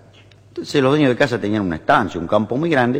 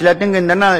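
Italian husband lamenting; 6 semitones higher, 3 dB louder than usual. Acted. Italian husband answering neighbour about his wife, mock lament. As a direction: lament theatrically with an Italian accent. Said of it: "Hay un italiano".

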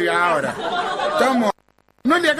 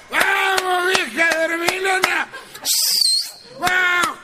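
put-on drunk yelling; 12 semitones higher, slower than usual. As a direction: bellow it like a drunk calling at four in the morning. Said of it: "a lo grito".

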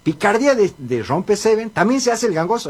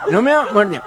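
nasal cleft-palate speech; mock nasal speech impediment; gangoso; faster than usual. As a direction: talk through the nose with blurred consonants. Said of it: "El otro gangoso dice".

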